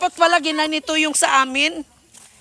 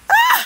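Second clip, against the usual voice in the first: gasp for air; 5 dB louder than usual. Real, not acted. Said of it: "kailangan ko ng hangin".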